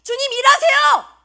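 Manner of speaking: high-pitched pleading calls to the Lord; desperate prayer. Acted. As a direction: plead urgently as a suffering believer praying. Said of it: "이렇게 기도하지 않았겠어요?".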